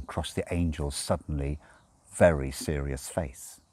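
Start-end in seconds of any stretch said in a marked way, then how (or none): none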